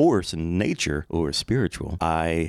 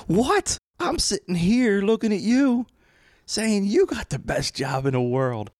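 laughing in disbelief; slower than usual. Retold or imitated. Stay-at-home dad laughing back at the radio host, high and giggling. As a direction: talk through laughter, high and amazed. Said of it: "I start laughing".

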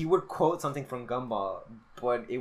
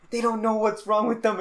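imitated ranting student; 9 semitones higher, 4 dB louder than usual. Retelling the ranting student's reply.

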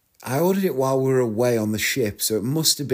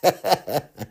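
short burst of giggles; laughing; 3 semitones higher than usual. Real, not acted. Podcaster tickled by the memory of the guide's singing, laughing. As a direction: chuckle to yourself.

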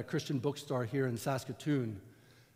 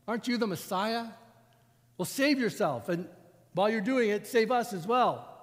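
sarcastic taunt; 4 semitones higher, 3 dB louder than usual. Acted. Dying criminal taunting Jesus from the cross, sarcastic. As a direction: sneer the dare to save himself. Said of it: "more than just a hint of sarcasm in his voice".

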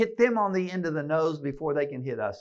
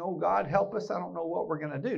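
mock whimpering; 3 semitones higher, faster than usual. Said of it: "mamby-pamby whimpering".

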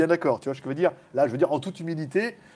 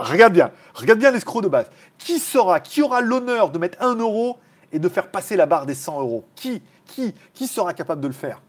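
hyping the crowd; 3 semitones higher, 4 dB louder than usual. Acted. Hyping viewers to donate.

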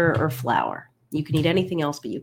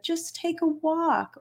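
high, slow sing-song mock advice; slower than usual. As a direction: drawl it like glib advice. Mocking advice clients were given.

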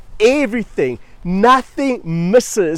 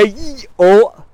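sudden loud startled exclaim; caught-out yelp; 6 dB louder than usual. Retold or imitated. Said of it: "I go".

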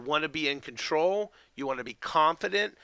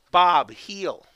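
firm, louder dog command; firm but gentle; 6 dB louder than usual. Shown as a demonstration. Dog trainer showing owners the heel command, firm but gentle. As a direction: address the dog by name and order it to heel. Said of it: "in a firm but gentle tone".

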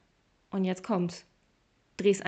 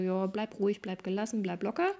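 calm soothing words. Shown as a demonstration. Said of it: "Ich übertreibe das jetzt auch extra so".

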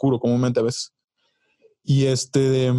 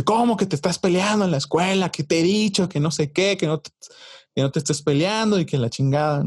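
higher-pitched mock reprimand; imitating scolding dad; 5 semitones higher than usual. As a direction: play a parent telling off a kid, voice pushed up. Acts out father scolding over fight report.

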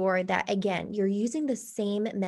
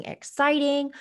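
higher and louder on exciting; excited inflection; 5 semitones higher, 4 dB louder than usual. Shown as a demonstration. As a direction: lift the word exciting up. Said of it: "add inflection to your voice".

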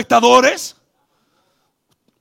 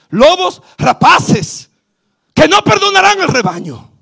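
Paul weeping; 7 semitones higher, 5 dB louder than usual. Retold or imitated. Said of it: "Pablo lloraba y decía".

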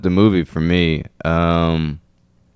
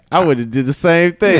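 mock Lawrence voice; 10 semitones higher than usual. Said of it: "you was like".

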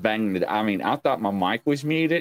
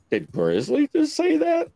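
higher, shocked mock question; mock disbelief. Imitating the audience reacting to a slip, high and shocked. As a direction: ask it like you can't believe your ears. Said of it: "everybody just, like, was like".

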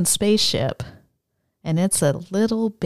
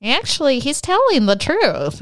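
normal voice; 8 semitones higher than usual. Retold or imitated. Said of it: "normal voices, not big scary alien voices".

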